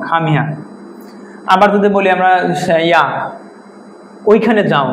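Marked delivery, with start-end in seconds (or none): 0.1-0.5 "খাম হিয়ার" with a silent final R; R-less British pronunciation. Shown as a demonstration. Teacher repeats the model, "খাম হিয়ার" with R dropped. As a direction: say "হিয়ার" ending on an open aa. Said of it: "এরকম হবে".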